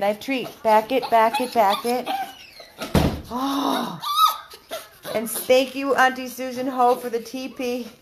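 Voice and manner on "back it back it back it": louder, higher dog command; firm command. Real, not acted. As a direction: push them back from the door. Ordering dogs back.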